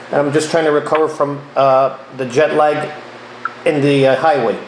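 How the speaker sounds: drowsy, low and slowing; sleepy voice, half asleep. Real, not acted. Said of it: "I'm sort of, like, half asleep".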